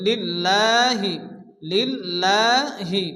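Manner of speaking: লিল্লাহি drawn out, the la held one count; one-alif stretch. Shown as a demonstration. Teacher demonstrating the elongation in লিল্লাহি. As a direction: hold the vowel of লিল্লাহি one beat. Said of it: "এক আলিফ পরিমাণ টান দিয়ে পড়তে হবে".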